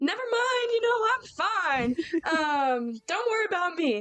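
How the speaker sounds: awkward hesitant stumbling. Retelling a road trip, Riley answers the person she had called; imitating Riley, mock-awkward. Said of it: "she had to awkwardly be like".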